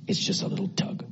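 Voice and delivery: breathy whisper, almost no voice; whispered, soft and intimate; hushed whisper. Acted. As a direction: draw them in with a hush.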